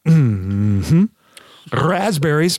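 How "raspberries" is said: booming announcer call; fighting game announcer. Acted. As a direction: announce the word like a fighter's name. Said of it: "announcer voice".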